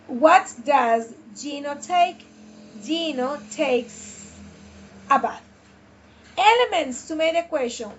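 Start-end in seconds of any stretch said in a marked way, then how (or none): 0.1-5.4 slow model reading. Shown as a demonstration. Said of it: "vean cómo paso de la pregunta a la respuesta".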